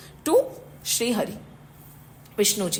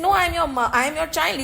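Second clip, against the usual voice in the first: higher-pitched, urgent protest; retold panicky insistence, mildly acted; upset and scared; 4 semitones higher, much faster than usual. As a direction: protest like an alarmed child. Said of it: "became very upset and scared".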